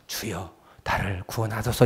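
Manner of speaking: quiet, low "구원하소서" murmured; a weak, hushed call; soft low plea. Shown as a demonstration. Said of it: "이렇게 해서". (작고 낮게 "구원하소서")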